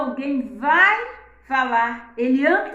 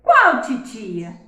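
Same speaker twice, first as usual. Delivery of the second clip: put-on child's question; 7 dB louder, slower than usual. Shown as a demonstration. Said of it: "olha a entonação".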